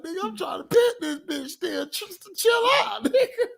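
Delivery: Red Foxx impression. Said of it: "He like".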